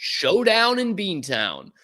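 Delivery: drawn-out, high and hyped slogan; mock hype. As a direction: stretch it out high like a big fight billing. Mocking a hyped T-shirt slogan.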